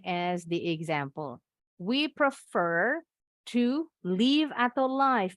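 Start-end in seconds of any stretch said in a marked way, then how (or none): 3.5-5.4 live as LIV then live as LAIF; two readings. Shown as a demonstration. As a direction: contrast short live and long live. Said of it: "Bacanya ada dua". (live dibaca liv lalu laif)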